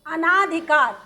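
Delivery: अनाधिकार with a long आ after अन; अनाधिकार, stretched आ sound; wrong form shown. Shown as a demonstration. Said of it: "इसमें भी ये जो आ का डंडा लगा है वो नहीं लगना".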